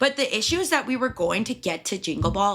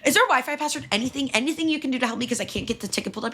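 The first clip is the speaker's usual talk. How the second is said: demanding Karen; 6 semitones higher, much faster than usual. Retold or imitated. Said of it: "being a raging Karen".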